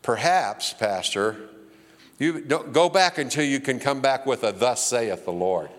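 low, dignified elder's voice; a low, dignified elder reply to his pastor. Retold or imitated. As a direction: speak as a grave senior church leader. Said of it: "Arlo's dignified ... he goes".

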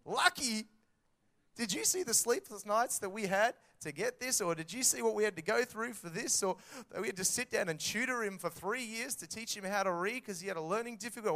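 high, loud scoffing comeback; indignant retort. Retold or imitated. Parent to the envious onlooker, scoffing and loud. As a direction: scoff then list the hard work. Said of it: "And you're like".

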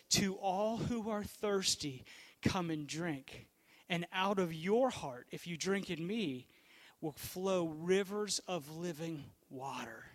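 slow, hushed voice of Jesus calling people to drink; gentle invitation. Acted. Pastor voicing Jesus inviting the thirsty, slow and hushed. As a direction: lean in and offer it slowly, like a promise.

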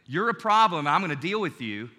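loud, hard threat; threatening tone. Shown as a demonstration. Preacher acting the hostile partner in a quarrel, loud and threatening. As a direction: bark it like you're squaring up. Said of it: "One says".

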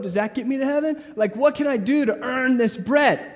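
hammed-up frantic do-gooder; mock eager activist pleading with God; anxious striving. Mocking anxious activists' inner voice.

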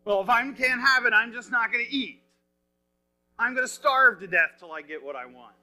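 lightly imitating a sulky child; mock pouting. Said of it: "He's pouting with his face against the wall".

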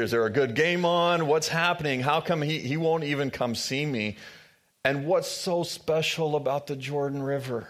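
mild indignant commander. Retold or imitated. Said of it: "this makes Naaman mad".

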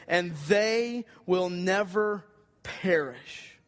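"And they will never perish" said slowly, each word weighted; emphatic phrase. Shown as a demonstration. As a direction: lean on the whole phrase, slow and deliberate. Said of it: "the most emphatic phrase in this verse".

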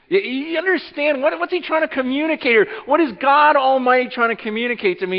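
excited high preaching. Acted. Preaching peak, high and loud.

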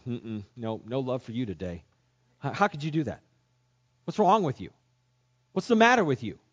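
imagined angry God; mock scolding God. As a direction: scold him, rising to exasperation.

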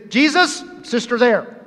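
mildly acted indignation; annoyed, calling for backup; mad. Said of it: "She's mad".

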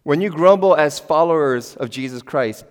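ordinary talk

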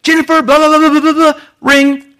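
high, loud mock mom scolding the kids; a mom ranting at her kids; angry mom scolding. Mother scolding her kids, high and loud. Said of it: "our mom could answer the phone like this".

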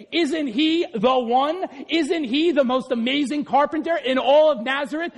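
slow, marvelling praise; a touch of amazed praise; admiring awe. Retold or imitated. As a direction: say it in wonder. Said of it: "In Greek, they were saying".

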